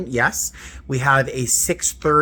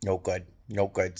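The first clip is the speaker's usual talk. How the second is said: weary lament; 5 semitones lower, 8 dB quieter than usual. Real, not acted. Sleep ruined by cats.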